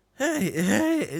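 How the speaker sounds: put-on very high, loud, creaky teenager voice. Trying out voices for a character, with a creaky teenager voice. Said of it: "that's that's creaky voiced teenager".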